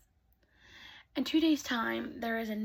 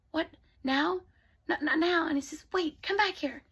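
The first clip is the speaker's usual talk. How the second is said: startled protest; 5 semitones higher, 4 dB louder than usual. Acted. Prince protests her leaving.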